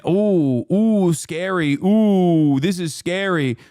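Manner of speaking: slow, sarcastic fake fear; half-hearted sarcastic ooh; mock fright. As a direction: coo the fake fear, mocking them.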